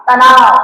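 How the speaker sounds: तनाव said loudly, with pressure on the word; tense stress on तनाव. Shown as a demonstration. Teacher showing the strain inside a word, तनाव stressed loudly. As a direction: press hard on तनाव, as if it pulls the tongue. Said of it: "वो जो खींचता है ना".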